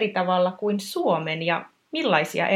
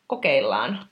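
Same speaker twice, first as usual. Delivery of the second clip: whispered try; 8 semitones lower than usual. Real, not acted. Host trying it out quietly.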